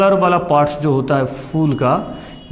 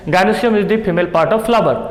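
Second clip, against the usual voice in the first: slow dictation; much slower than usual. Shown as a demonstration. Dictating model exam answer.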